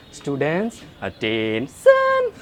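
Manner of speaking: teacher's breaking voice, with attention dragged very slow; slow, cracking teacher call to order. Retold or imitated. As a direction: imitate a voice-cracking teacher's command. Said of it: "That kind of voice".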